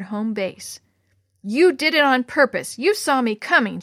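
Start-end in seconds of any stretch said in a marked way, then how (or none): 1.4-3.8 louder and higher, an angry woman's accusation; snarling. Acted. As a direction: bite out the blame at the boy. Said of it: "she snarled".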